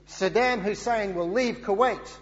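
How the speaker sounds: loosely faked American presidential accent, announcing it; bad George Bush accent. Preacher quoting President Bush, a self-confessed bad American accent. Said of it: "that's a bad accent".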